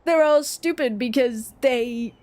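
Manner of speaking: lightly voiced scornful snob, drawn out at first; mock a superior Londoner, lingering on the opening; mock British snob. British person scorning everyone outside London, lightly mocked snobbery. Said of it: "they'll be like".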